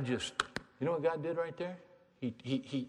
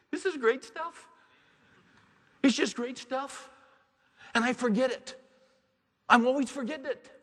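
much higher, loud and joyful; elated preaching; 13 semitones higher, 7 dB louder than usual. Acted. Preacher delights in his own message to the church, elated. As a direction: ride the thrill of the message.

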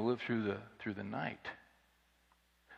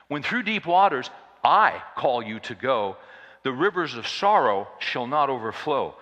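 proclaimed hymn recital; 6 dB louder than usual. Acted. Preacher proclaiming the hymn's right wording to the congregation, loud. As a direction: proclaim the hymn line as the true version.

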